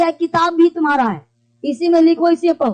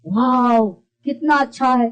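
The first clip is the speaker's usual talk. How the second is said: mock wonder; 3 semitones lower, slower than usual. Shown as a demonstration. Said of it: "आश्चर्य किया".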